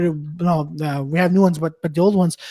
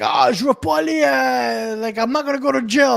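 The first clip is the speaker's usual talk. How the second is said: mock panicked son; 4 semitones higher than usual. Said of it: "guys like".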